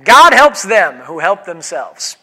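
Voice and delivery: God helps them who help themselves said slowly, each word weighted; drawn-out quote of God helps; slow mock proverb. Shown as a demonstration. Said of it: "People who say".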